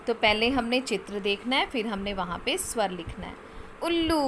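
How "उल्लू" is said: उल्लू said long and stressed on उ; teacher stretching the vowel; drawn-out word. Shown as a demonstration. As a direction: stretch the first sound of उल्लू for the child.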